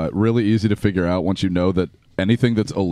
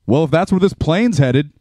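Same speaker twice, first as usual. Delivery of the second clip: Bob Uecker voice; 4 semitones higher, 3 dB louder than usual. Retold or imitated. Retelling the plane story, lightly imitating Bob Uecker. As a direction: lightly mimic Bob Uecker's deadpan reply. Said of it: "in that Bob Uecker voice".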